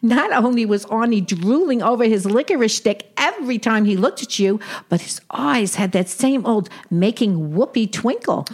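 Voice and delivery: put-on old Brooklyn aunt with Yiddish lilt; yiddish accent. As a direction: play a wisecracking Jewish aunt. Sadie teasing sister.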